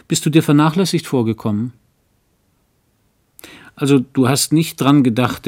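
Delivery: a hint of the coaxing wife; young wife. A narrator's reading. Carola coaxes her husband about the heater, lightly voiced.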